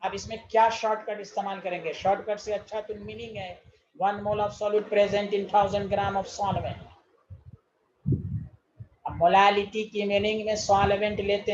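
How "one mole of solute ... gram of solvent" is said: very slow, word by word, for note-taking; spaced-out classroom dictation. Shown as a demonstration. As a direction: dictate each word so they can write it down. Teacher dictating definition slowly.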